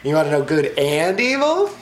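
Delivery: high teasing tempter, quick on the middle line; a hint of a sly serpent; tempting serpent. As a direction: dangle the secret before her. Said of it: "So he's like".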